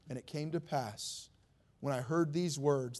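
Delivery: scripture reading. Acted. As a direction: lecture biblique solennelle, avec ferveur. Reads Nehemiah's prayer from scripture.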